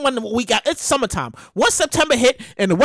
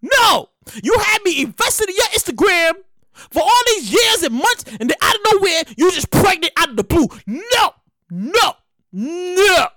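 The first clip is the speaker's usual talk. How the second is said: whining fan; 4 semitones higher, slower than usual. Retold or imitated. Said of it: "And you be like".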